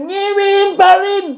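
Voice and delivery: slow, high, scornful shout; high mocking shout. Real, not acted. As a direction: pitch jumps up into a slow mocking yell.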